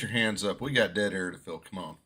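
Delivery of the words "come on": usual speaking voice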